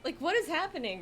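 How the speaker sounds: high, loud disbelief; bewildered outburst. Retold or imitated. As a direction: cry out in baffled alarm. Retold alarm at the angry bee.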